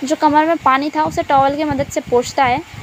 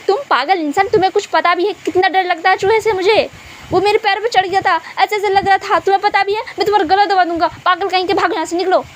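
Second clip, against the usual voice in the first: higher, heated scolding of a friend; angry outburst; 5 semitones higher than usual. Acted. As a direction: snap at him, fed up and in pain. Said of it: "अचानक से इतना गुस्सा क्यों करने लग गए". (गुस्से में ऊँची आवाज़ में डाँटना)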